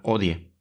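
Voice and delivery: odie with the H silent; silent Latin H. Shown as a demonstration. Showing silent H to Latin American learners. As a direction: say odie, no H sound. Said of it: "la usamos silenciosa".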